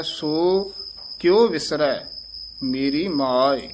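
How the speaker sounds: ਸੋ held apart, then a pause; stress on ਸੋ. Shown as a demonstration. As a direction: give ਸੋ a stop and weight before ਕਿਉ. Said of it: "ਸੋ ਤੇ ਯਮਕ ਲਾ ਕੇ".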